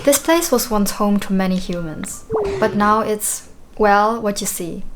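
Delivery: put-on lightly British old character voice; mild British accent for a game character; British accent for Tangrowth. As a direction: read it with a hint of a British accent. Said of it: "a British accent".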